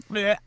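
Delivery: imitated squish, short bleh; splat noise. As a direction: mimic a bug being splattered. Imitates spider splattering on window.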